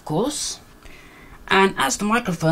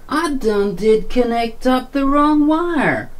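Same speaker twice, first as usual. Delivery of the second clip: mock yokel voice; 6 semitones higher, slower than usual. Jokey mock of own blunder.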